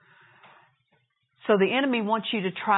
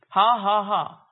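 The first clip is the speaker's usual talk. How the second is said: laugh; 4 dB louder, slower than usual. Retold or imitated. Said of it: "he started laughing".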